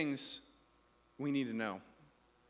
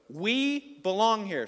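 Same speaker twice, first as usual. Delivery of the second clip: raised, drawn-out call; loud call to echo; 4 semitones higher, 6 dB louder, much slower than usual. Shown as a demonstration. Pastor cues congregation to echo, loud call. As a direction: lead the crowd, loud and slow. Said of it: "say it really loud".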